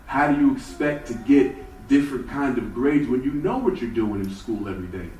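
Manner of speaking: a rising, exasperated father; father scolding Jeff over his report card, rising exasperation; stern father. Retold or imitated. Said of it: "he would say".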